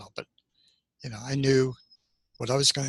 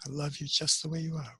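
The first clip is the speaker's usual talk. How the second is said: softer, tender inner voice; soft tender reassurance; 2 semitones higher, 6 dB quieter than usual. Retold or imitated. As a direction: whisper it like a loving inner voice. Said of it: "what about when I".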